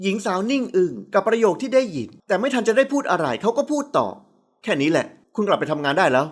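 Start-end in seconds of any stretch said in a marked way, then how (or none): 4.3-6.2 flat, even tone. A narrator's reading. CEO dismissing her, lower and level. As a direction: dismiss her without looking. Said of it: "เขาพูดเสียงเรียบ".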